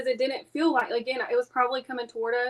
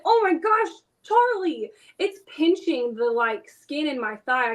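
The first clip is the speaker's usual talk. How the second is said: startled yelp of pain; slower than usual. Retold or imitated. Fish rod pinching her thigh.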